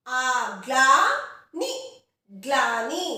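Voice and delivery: ग्लानी slowly with ग्ल joined; slow careful pronunciation. Shown as a demonstration. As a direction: stretch ग्लानी, ग्ल fused. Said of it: "वो ल के साथ मिल रहा है". (धीरे से ग्लानी)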